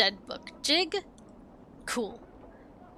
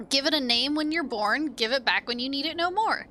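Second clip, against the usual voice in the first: sing-song dustman; 2 semitones higher than usual. Acted. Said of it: "curious sing-song voice".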